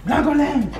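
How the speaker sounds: singsong welcome. Real, not acted. Greeting puppy playfully.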